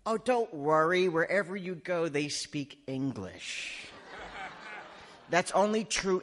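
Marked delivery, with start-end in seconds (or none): 0.1-3.9 breezy reassurance. Acted. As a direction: wave the worry away, imitating seasoned travellers. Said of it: "They say".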